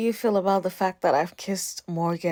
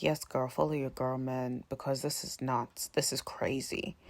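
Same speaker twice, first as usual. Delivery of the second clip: much softer, low hushed quote; hushed aside; 5 semitones lower, 10 dB quieter than usual. Retold or imitated. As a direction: murmur it under your breath. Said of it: "I'm like".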